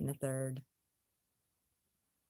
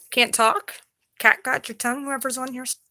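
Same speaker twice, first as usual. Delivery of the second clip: much louder, higher taunting challenge; loud mocking challenge to the chat; 7 semitones higher, 11 dB louder than usual. Real, not acted. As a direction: dare the trolls to speak up. Taunting silent trolls.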